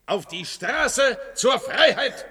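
slow, shouted call to the streets; rallying cry. Acted. Leader shouting to his followers, rousing. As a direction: rouse the crowd with a slow shout.

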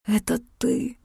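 soft dazed murmur; whispered. A narrator's reading. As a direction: barely breathe it out. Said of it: "прошептал он невпопад". (растерянный шёпот)

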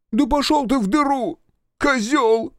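high furious shout; angry insult. Acted. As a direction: spit the insult out. Engineer insults captain in fury.

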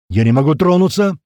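loud despairing shout; desperate cry. A narrator's reading. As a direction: cry out, stuck and helpless. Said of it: "полный отчаяния крик Рыжего". (отчаянный крик)

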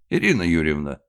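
loud calling out; shout. Acted. Director calling the stage manager, loud shout. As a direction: call across the hall. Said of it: "крикнул Магит".

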